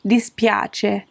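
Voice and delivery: mi dispiace drawn out slow and apologetic; slow regretful mi dispiace; sorry, slow. Shown as a demonstration. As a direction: apologize slowly, meaning it. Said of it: "you just wanna say".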